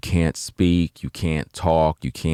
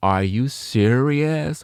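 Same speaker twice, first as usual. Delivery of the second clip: very high, sarcastic, needling jabs, serious and stretched, acted out; 12 semitones higher than usual. Speaker acts out how a woman reacted to him: mocking a sarcastic reply. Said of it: "More sarcastic, more sarcastic behavior".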